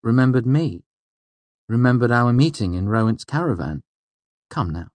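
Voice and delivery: high, emphatic playful prodding; teasing. A narrator's reading. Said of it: "she teased".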